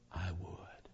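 a broken, barely voiced whisper; tearful whisper. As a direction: let the words collapse into a whisper. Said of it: "And then he started crying".

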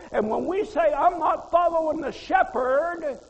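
full-force Sunday preaching, rising in pitch; fiery preaching. Real, not acted. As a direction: preach it hard to the congregation.

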